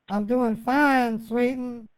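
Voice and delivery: put-on slow, lightly drawled southern accent. Quoting Captain Howdy's reply, in a southern drawl. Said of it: "he does a southern drawl".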